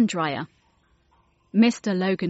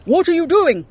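loud, high, outraged yell; angry shout; 10 semitones higher, 8 dB louder than usual. A narrator's reading. Security guard catching a painting thief, loud shout. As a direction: stop the thief with a bellow. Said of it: "shouted the security guard".

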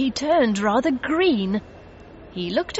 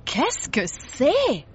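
slow, higher-pitched wondering question; mild gasp; 6 semitones higher, much slower than usual. A narrator's reading. Mister Logan points at a squiggly painting, mildly astonished. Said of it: "Mister Logan gasped".

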